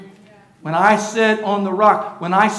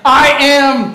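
loud call, higher and louder; leading a shout; 7 semitones higher, 9 dB louder than usual. Shown as a demonstration. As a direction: lift the crowd with it.

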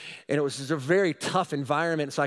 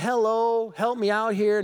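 louder, higher plea for help; calling out for help; 6 semitones higher, 4 dB louder, slower than usual. Retold or imitated. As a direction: call out to the people sitting there.

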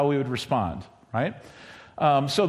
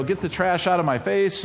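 mock angry; 4 semitones higher than usual. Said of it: "you're kind of angry about it".

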